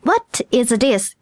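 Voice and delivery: very slow, spaced-out English; deliberate teaching demonstration; slow model phrase. Shown as a demonstration. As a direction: model it word by word for learners. Teacher models key phrase for learners.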